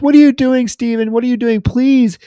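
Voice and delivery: high, loud frightened begging; mock panicked pleading. Wife begs her attacker husband, high and panicked. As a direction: plead in terror to stop him. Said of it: "she's screaming".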